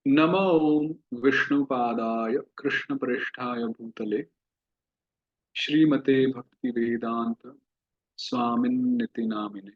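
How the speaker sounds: steady chanted recitation of the prayer; mantra recitation. Shown as a demonstration. Teacher recites the mantra before explaining its pronunciation, calmly chanted. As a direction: recite it like a devotional verse.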